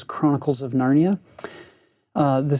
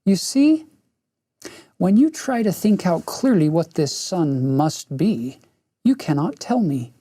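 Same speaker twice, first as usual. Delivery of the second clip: silky witch voice; 2 semitones higher than usual. Acted. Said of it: "soft silver laughs".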